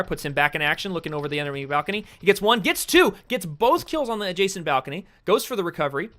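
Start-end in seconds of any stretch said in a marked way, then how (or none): 2.2-6.1 rising excitement, louder and higher; excited. Real, not acted. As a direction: call the double kill with hype. Excited kill play-by-play.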